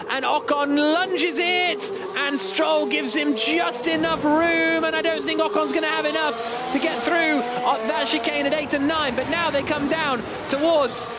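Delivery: rising, quick excitement as Ocon goes for the pass; excited race call. Real, not acted. Final lap overtake called live.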